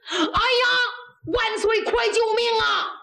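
high-pitched cry for help; urgent plea. A narrator's reading. Kneeling general begs the emperor for help, crying out urgently. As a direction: beg frantically to be rescued.

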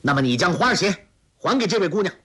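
a mild, understated angry shout from Guo Jing. A narrator's reading. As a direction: bark the order angrily. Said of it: "纵身过去喝道".

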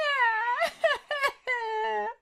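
high wailing sob. A narrator's reading. Wife breaks down wailing.

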